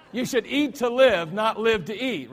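finally nails it with a laugh, punching "eat"; laughing correction. Shown as a demonstration. Scene: preacher gets the proverb right at last, laughing. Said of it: "I'll get it right sooner or later".

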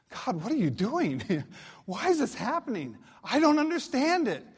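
rising in pitch to a mock-pleading protest; acted exasperation. Believer in difficult times questions God, mock exasperated.

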